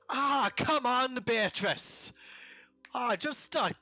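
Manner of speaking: high, loud pleading flirt; Castilian wheedling. Acted. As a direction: whine for a deal, drawn out. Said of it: "you just hear him say".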